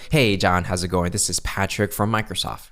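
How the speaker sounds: easygoing greeting with a hint of positivity; casual, positive. Shown as a demonstration. Caller greeting a prospect as a peer, casually positive. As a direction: talk as if to a peer. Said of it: "a hint of positivity in your voice".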